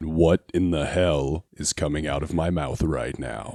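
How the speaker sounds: really deep voice. Reacting in character to a changed voice: really deep voice. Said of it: "your voice is really deep".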